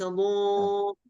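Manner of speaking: drawn-out ضو with a closed 'o'; wrong rounded vowel. Retold or imitated. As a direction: show the error of a shut ضو. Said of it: "ليس". (تقليد خطأ ضو)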